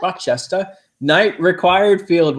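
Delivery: put-on high, playful English accent, R dropped; mock English accent. Host echoing co-host's hometown joke in mock English accent. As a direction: echo it as put-on English, ending in -stah. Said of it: "sounds like an English".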